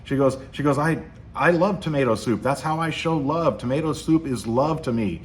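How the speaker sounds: playing a wife hurt that her soup isn't appreciated; mock upset wife. Wife defends her tomato soup to her husband, mock upset. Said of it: "finally she gets upset".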